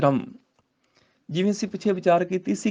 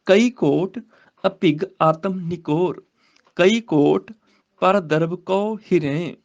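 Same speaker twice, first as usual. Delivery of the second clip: slow, measured verse reading; scripture recitation; much slower than usual. Shown as a demonstration. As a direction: recite the sacred verse, drawing out the words.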